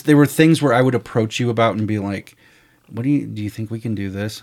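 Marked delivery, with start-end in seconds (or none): 2.9-4.4 quick, tentative question in an everyday pitch; timid asking. Retold or imitated. Filmmaker approaching his partner with a bold idea, timidly. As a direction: ask meekly, hat in hand. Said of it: "kinda have my hat in my hand".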